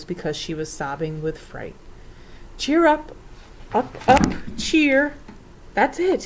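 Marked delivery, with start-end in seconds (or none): 2.6-5.1 high, loud bursts; excited calling. A narrator's reading. Repeated cry over the frightful din, excited calling. 5.8-6.2 high, loud burst of realization; excited cry. A narrator's reading. Professor hitting on a plan, excited cry. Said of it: "he cried".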